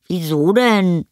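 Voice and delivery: put-on high, innocent-sounding boy voice; defensive boy. A narrator's reading. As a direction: play innocent in a child's high voice. Boy acting innocent to mother. (ertappter Junge, hoch)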